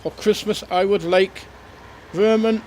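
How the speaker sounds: cheery Father Christmas reading letters; Santa voice. Acted. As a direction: read the kids' letters as a jolly Santa. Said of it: "This is Santa back again".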